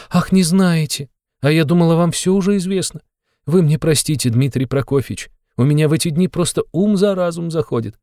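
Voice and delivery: high, agitated mother's voice; a mother spilling her worries, pitched high; fretting mother. A narrator's reading. Mother apologizes and fusses.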